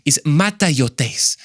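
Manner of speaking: slow, learned-sounding delivery of mataiotes; lightly put-on professor; mock scholar voice. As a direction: say mataiotes slowly like a pompous scholar. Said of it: "I sound smart".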